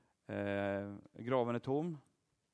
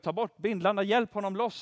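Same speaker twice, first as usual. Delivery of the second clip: raised, higher urgent order; commanding call; 6 semitones higher, 5 dB louder than usual. Retold or imitated. Preacher voicing Jesus ordering the bindings removed, raised urgent call. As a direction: call out to free him, higher and louder. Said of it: "Han går ut".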